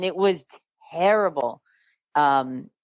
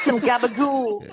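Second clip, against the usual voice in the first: Sopranos "gabagool"; 4 semitones higher than usual. Pretend. Sopranos bit.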